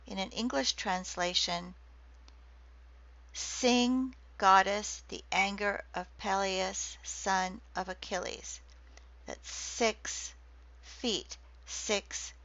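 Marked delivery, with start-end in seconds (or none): 3.3-8.6 Iliad opening with each stress marked; reading stresses out. Shown as a demonstration. Lecturer reading Homer to students, stresses marked. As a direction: recite it so each stress can be counted. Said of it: "if you count the stress".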